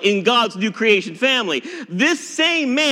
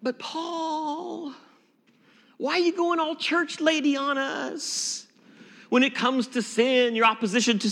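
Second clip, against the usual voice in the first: mock scolding; 5 semitones higher, 5 dB quieter than usual. Real, not acted. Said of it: "teasing Paul as church lady".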